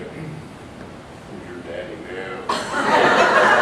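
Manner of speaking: slow, gloating sneer, low; sneering taunt. Retold or imitated. Ventriloquist lady taunting the comic, slow and sneering. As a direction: lean back and taunt him, savouring it. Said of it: "She had this sneer on her face".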